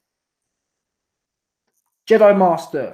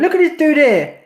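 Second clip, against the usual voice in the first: jumps up high and louder at the sight; surprised; 8 semitones higher, 4 dB louder than usual. Real, not acted. Streamer suddenly spotting a rival's fan in chat, high surprised. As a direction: caught off guard by a name popping up. Spots someone in chat, reacts.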